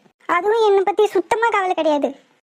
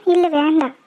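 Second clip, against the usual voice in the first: tearful refusal. Acted. Girlfriend tearfully turns down the bike ride, crying. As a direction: say no while still crying. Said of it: "அப்புறம் ஏன் அழற?".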